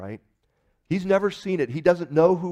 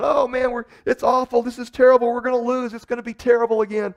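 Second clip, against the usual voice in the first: much higher, louder mock panic, faster at the end; imitating panicking friend; 10 semitones higher, 8 dB louder than usual. Friend trailing in the playoffs, panicky high wail. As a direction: squeal it like a fan watching his team lose. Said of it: "And he's panicking again".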